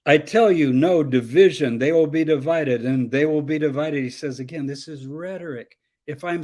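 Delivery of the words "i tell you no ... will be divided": louder, hammered repetition; mocking redundancy. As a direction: pound the same point mockingly. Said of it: "It's very redundant".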